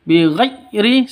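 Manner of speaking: Bighairi with the ghai jerked and cut short; wrong jerked ghai. Shown as a demonstration.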